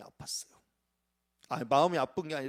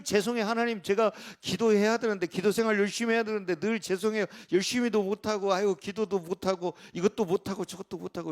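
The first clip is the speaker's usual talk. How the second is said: higher, fast sorry prayer, a touch whiny; apologetic prayer; 3 semitones higher than usual. Retold or imitated. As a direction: rattle off a guilty prayer. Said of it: "하나님 앞에 설 때마다". (하나님께 죄송하다고 빠르게 비는 기도 흉내)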